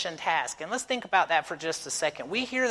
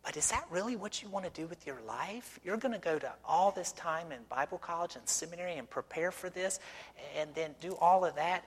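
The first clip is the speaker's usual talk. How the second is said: doubtful lady voice; 2 semitones higher, 6 dB quieter than usual. Retold or imitated. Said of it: "she said".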